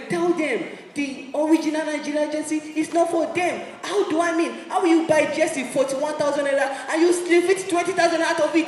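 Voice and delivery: ordinary delivery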